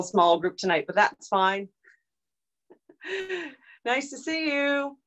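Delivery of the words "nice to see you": whispering. Real, not acted. Whispered greeting to joining viewers.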